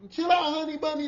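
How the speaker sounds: high, loud, slow movie-villain yelling; Samuel Jackson impression. Imitating Samuel Jackson at a man, loud and slow. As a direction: channel the Pulp Fiction diner standoff, loud. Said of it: "Samuel Jackson on Pulp Fiction".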